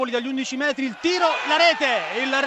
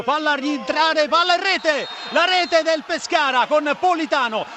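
breathless italian goal commentary; 2 semitones higher than usual. Real, not acted. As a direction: pitch climbing as the ball goes in. Free kick goes in live. (telecronaca del gol senza fiato)

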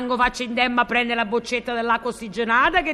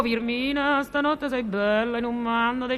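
romantic poetic declamation; 2 semitones lower, 3 dB quieter, slower than usual. Pretend.

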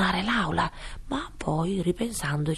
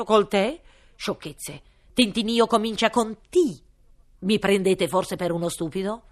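loud pompous royal threat; threatening king; 3 semitones higher, 7 dB louder than usual. Acted. King mocks. (re minaccioso)

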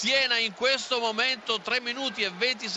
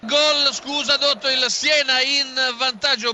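breathless italian goal commentary; 2 semitones higher, 5 dB louder than usual. Real, not acted. Goal flash interrupting.

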